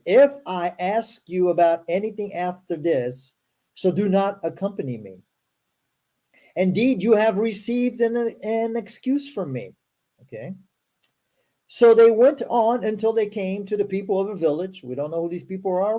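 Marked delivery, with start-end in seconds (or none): 0.1-9.8 formal, deliberate read-aloud; scripture reading. Acted. Host reading Moses's story to listeners, formal recital. 11.7-14.8 formal, deliberate read-aloud; scripture reading. Acted. Host reading Moses's story to listeners, formal recital.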